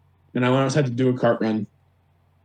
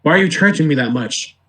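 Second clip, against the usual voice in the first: retold indignant surprise; 2 semitones higher than usual. Customer objecting to the phone's price, mock indignant surprise. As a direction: imitate a customer balking at the bill.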